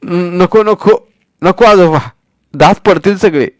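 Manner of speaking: high, slow mock-frightened pleading; as if scared. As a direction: plead as if scared, half-joking. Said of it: "घाबरल्यासारखा".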